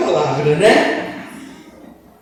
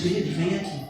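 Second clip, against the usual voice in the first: soft and low; a soft, calm motherly call; speaking softly; 6 semitones lower, 11 dB quieter than usual. Shown as a demonstration. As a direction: call him gently under your breath. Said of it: "Falar baixinho".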